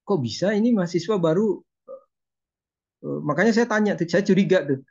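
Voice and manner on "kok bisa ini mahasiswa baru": retold astonishment, slightly higher pitch; a touch of amazement, recounting your own reaction; mildly surprised. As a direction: wonder aloud in mild disbelief. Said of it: "Sampai saya kaget tuh".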